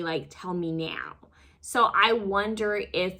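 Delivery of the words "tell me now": Kerry Washington imitation. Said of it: "Her lips, like, really".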